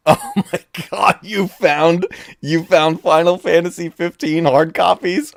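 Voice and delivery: overjoyed at the surprise gift; excited. Real, not acted. Thrilled at gift.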